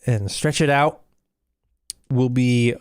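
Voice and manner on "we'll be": slow breathy whisper. Real, not acted. Streamer telling viewers they'll return, whispered. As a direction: whisper it like a secret sign-off. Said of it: "signing off quietly".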